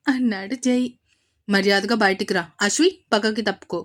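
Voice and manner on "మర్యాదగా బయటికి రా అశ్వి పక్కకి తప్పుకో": panting. Acted. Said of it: "అన్నాడు అద్వైత్ ఆయాసంతో రొప్పుతూ".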